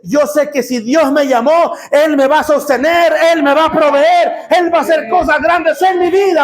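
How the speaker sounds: building in pitch to a high preaching shout; declaration of faith. Acted. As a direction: proclaim it with rising conviction. Acting out the supernatural man's declaration.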